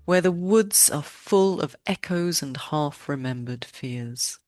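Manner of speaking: polished, lively intro read with deliberate phrasing; podcast intro. Real, not acted. Host introduces a guest poet to listeners, podcast intro. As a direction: welcome listeners in with measured showmanship.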